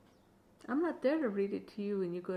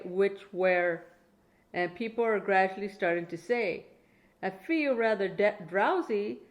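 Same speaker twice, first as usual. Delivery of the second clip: put-on reading to a child; 3 dB louder than usual. Grandma reading a Dr Seuss bedtime book to her grandchild, clear storytelling. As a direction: read it out like a bedtime book for a little one.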